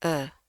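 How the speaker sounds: "E" as a schwa; schwa sound. Shown as a demonstration. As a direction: say "E" like the vowel in senang. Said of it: "lebih tepat kalau kita bacanya pakai e". ("E" pepet seperti dalam senang)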